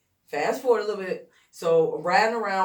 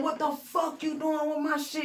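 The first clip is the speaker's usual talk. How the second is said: indignant yell; 11 semitones higher than usual. Retold or imitated. Writer catching Buck reading his notebook, high indignant yell. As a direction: confront him for touching your notebook.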